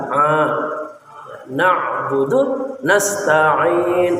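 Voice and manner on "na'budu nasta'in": slow na'budu with the ain felt in the throat. Shown as a demonstration. Teacher showing where the ain is felt. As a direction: say na'budu feeling the ain here. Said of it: "Di sini berasa nih".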